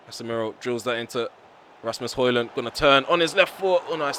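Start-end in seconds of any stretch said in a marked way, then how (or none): 2.5-4.2 higher and louder as the striker turns; rising thrill as the chance opens; excited call. Real, not acted. Player making a run on goal, excited call.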